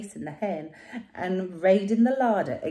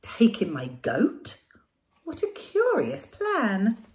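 slow whispered then puzzled; 3 semitones higher, 4 dB louder, slower than usual. Acted. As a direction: wonder at the strange idea, slowly. Lady puzzled.

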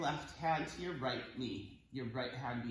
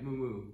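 cow moo. Shown as a demonstration. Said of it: "Cow pose".

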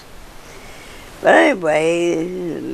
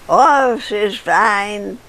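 mock grating voice, higher on "Oh"; imitating Helen's horrible voice; 3 semitones higher, much slower than usual. Teller mimics Helen answering in a store, mock grating voice. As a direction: lightly put on the piercing voice she had. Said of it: "with that horrible voice you go".

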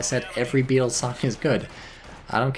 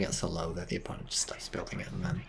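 whispering; 3 semitones lower, 10 dB quieter than usual. Real, not acted. Aside trailing to whisper.

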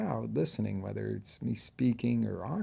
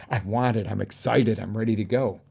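eager; 4 dB louder than usual. Shown as a demonstration. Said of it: "Am I faking that?".

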